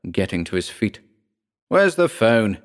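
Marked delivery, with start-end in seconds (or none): 1.7-2.6 bellowing. Acted. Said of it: "he bellowed".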